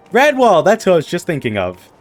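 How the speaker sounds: put-on a light British accent with a loud high call on the name. NPC remembering a name, light British accent. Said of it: "are you doing a British accent now?".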